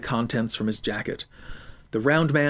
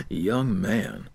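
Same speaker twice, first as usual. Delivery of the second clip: put-on lower, slow stern YOUNG man; stern official; 5 semitones lower than usual.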